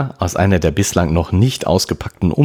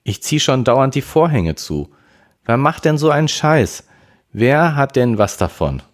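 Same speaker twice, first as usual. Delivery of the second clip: irked complaint, pitched up; somewhat annoyed; 9 semitones higher, 3 dB louder than usual. A narrator's reading. Sister complains to her brother about being spied on, annoyed. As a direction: complain in a higher, mildly exasperated voice. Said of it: "etwas genervt zurück".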